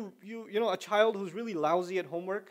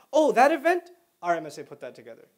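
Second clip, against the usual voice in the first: mock bragging; 8 dB louder than usual. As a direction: call attention before claiming it. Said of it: "You don't normally talk like that".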